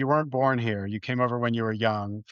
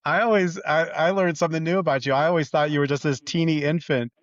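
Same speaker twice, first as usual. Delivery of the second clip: higher, amused disbelief; surprised; 4 semitones higher, 4 dB louder than usual. Real, not acted. Host surprised by the guest's age, amused and higher. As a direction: caught off guard by news, voice jumping up.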